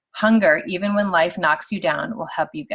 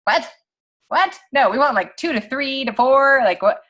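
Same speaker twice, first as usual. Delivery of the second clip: much higher, louder disbelief; incredulous; 6 semitones higher, 4 dB louder than usual. Retold or imitated. Team reacting to one rank a year, louder and higher in disbelief. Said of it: "we are like".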